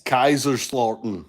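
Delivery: a German accent on the city name Kaiserslautern. Shown as a demonstration. Grandson showing off a German accent for the family, in German accent. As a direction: try Kaiserslautern in your best German accent. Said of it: "that was my best, uh, German accent".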